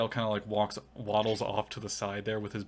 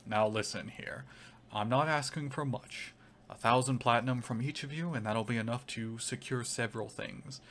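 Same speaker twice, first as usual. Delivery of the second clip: shady crime boss with a slight Irish lilt; hint of Irish in a scheming lord; accidental Irish accent. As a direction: make the sales pitch lightly Irish. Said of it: "that's the best Irish accent".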